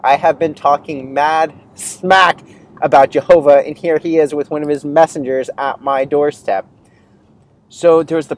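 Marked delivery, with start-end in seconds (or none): 0.0-6.7 imitating his own freaked-out self at the door; holy crap moment, voiced in mild alarm; retold panic. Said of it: "I was scared".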